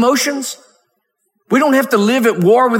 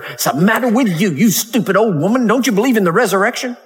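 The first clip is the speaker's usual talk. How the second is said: imagined scolding in a quick, run-on rush; mock scolding. Preacher mimics a scolder at the widow's funeral, mock scolding. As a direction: berate her impatiently, in mockery. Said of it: "say to her".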